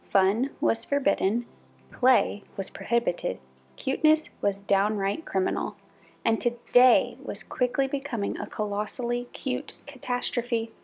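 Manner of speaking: measured picture-book storytelling; story narration. A narrator's reading. Narrator reads a puppy picture book aloud, storybook narration. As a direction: read clearly to children, with careful pauses.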